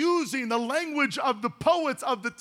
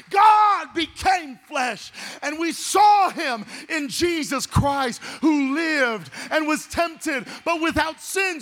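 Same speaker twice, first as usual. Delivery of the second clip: slow, higher and louder, proclaiming God became flesh; preaching climax; 3 semitones higher, 3 dB louder, slower than usual. Real, not acted. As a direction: stretch each word out and ring it to the back row. Sermon climax on the incarnation.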